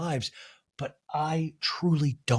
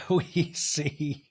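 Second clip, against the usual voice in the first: ordinary talk, nothing marked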